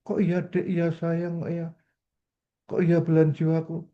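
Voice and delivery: exasperated wife. Retold or imitated. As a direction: play the fed-up wife who only hears yes dear. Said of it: "Akhirnya istri bilang".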